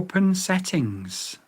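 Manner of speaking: slow, careful command; said slowly. Shown as a demonstration. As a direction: Open settings spoken slow and deliberate. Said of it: "I'll say it slow".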